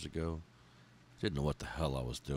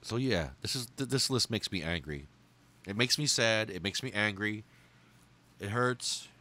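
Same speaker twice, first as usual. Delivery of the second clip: emotional; 5 semitones higher than usual. Real, not acted. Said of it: "I get very emotional with this list".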